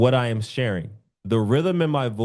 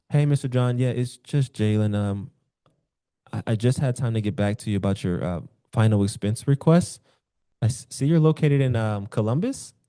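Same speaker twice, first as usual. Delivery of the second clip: relaxed casual caller. Shown as a demonstration. Sales coach demos a relaxed call to a client. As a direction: sound calm and familiar. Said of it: "You guys see the difference".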